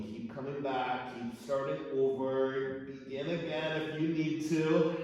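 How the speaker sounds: slow, sing-song guiding cues; slow encouragement. Real, not acted. Teacher encouraging students to begin again, slow sing-song. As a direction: gently coax them to start over.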